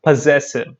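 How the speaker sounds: "possessive" as puh-ZESS-iv, said alone; short weak first vowel in "possessive"; correct pronunciation. Shown as a demonstration. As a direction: model "possessive" with a reduced "puh" opening. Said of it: "it's possessive".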